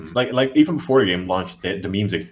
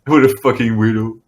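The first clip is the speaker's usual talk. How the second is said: loud, scoffing repeat; mocking jeer; 5 dB louder than usual. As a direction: imitate people jeering at an oddball. Same mocking crowd, repeated.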